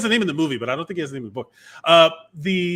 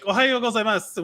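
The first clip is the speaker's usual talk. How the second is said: quoting a language tape; 7 semitones higher than usual. Retold or imitated. IPod lesson voice quoted.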